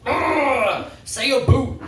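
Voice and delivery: high mock seductive purr; seductive woman. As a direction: flirt while saying a boot. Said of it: "no one in a different country is like".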